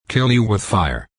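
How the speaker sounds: a touch of cooing on "Kill you with fire"; mild affectionate parrot coo. Acted. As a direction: lightly coo the threat like a fond pet. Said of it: "she cooed affectionately in response".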